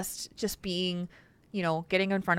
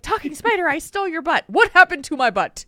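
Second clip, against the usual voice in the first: put-on higher, louder little-girl voice; three-year-old daughter; 9 semitones higher, 8 dB louder than usual. Parent imitating a three-year-old teasing the hand puppet, high and giggly. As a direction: squeak it like a giggly toddler. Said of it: "And she would be like".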